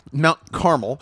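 Carmel said slowly as "CAR-mul"; like the mountain. Shown as a demonstration. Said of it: "Like, like the mountain".

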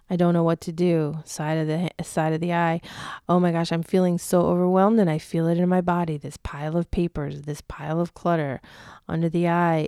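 voicing an overwhelmed client while tapping; guided tapping round, mildly anguished; tapping script. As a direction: speak the worry lines as if feeling them. Leads an EFT tapping round aloud.

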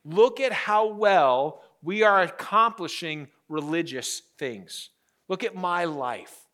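slow, self-satisfied boast; mock religious bragging. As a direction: show off your good works. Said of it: "that's what these people are doing".

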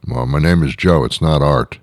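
lightly voiced low, casual reply; ordinary talker. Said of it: "talk like this".

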